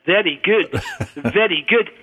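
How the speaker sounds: beaming examiner, lightly Scottish; Scottish accent. Retold or imitated. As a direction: imitate a pleased Scottish professor. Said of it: "face beaming".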